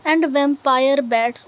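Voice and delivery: very slow, deliberate recitation, word by word; slow poem reading. Acted. Teacher reading a poem line to students, slow recitation. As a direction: read each line out slowly for the class to follow.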